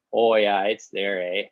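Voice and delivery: lightly put-on rural Canadian accent. Shown as a demonstration. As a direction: slip into a touch of country Canadian accent. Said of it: "there is a strong rural Canadian accent".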